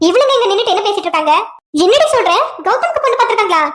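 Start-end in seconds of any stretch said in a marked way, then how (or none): 1.8-3.6 shocked. Acted. Friend shocked by news.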